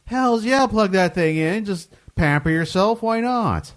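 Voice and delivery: high, gleeful cheer; excited. Real, not acted. Enthusing about hotel hairdryer.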